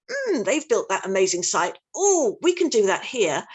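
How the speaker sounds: acted envious admiration, with swooping oohs; me-too envy. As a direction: play a copycat neighbour, impressed then eager. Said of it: "very much this Me Too thing".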